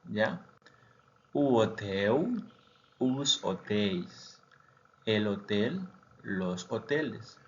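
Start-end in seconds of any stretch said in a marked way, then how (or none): 1.3-4.4 "hotéis" con e abierta y diptongo "eis", "os" como "us"; "os hotéis" dicho "us otéis"; pronunciación portuguesa. Shown as a demonstration. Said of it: "por el acento de la E más I S". (plural portugués "hotéis")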